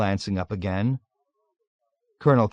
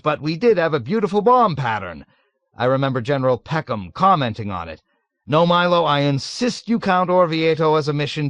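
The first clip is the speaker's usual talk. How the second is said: higher, louder booming officer voice; hearty colonel; 7 semitones higher, 4 dB louder than usual. A narrator's reading.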